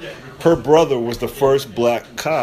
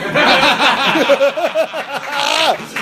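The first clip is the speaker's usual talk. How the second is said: bursts out in a high laugh; cracks up at his own joke; 13 semitones higher than usual. Real, not acted. Comic laughing at his own Bronx joke, high burst.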